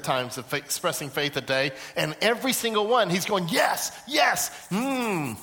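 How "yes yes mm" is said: high, thrilled yeses into a savoring hum; excited approval. Acted. God delighting in each expression of faith, excited approval. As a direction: relish every single one. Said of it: "He's excited about it".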